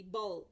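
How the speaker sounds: "Ball" said as a separate final chunk; syllable split off. Shown as a demonstration. Teacher breaking a word into parts for students, "Ball" isolated. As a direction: set "Ball" apart as its own syllable. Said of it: "break it down into its constant parts".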